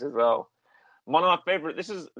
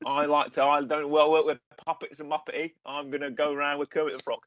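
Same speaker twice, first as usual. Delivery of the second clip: square-jawed actor impression, lightly done; Michael Caine. Podcaster improvises the actor refusing puppets, lightly impersonated. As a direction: lightly mimic a London film star. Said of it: "summon your Michael Caine impression".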